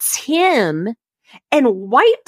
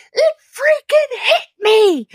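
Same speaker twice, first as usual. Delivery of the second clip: high, slow, whiny wail; hammed-up crying husband, squeezed out slowly; mock pained whimper; 14 semitones higher than usual. Wife mimics husband whining the ski hit him, high mock wail. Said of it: "And he goes".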